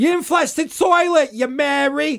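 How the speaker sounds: put-on high-pitched New Jersey lady accent, pitch way up. A speaker again acts out his wife's line to him, as a 1970s New Jersey Jewish lady. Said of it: "made my wife sound like a 1970s Jewish lady from New Jersey".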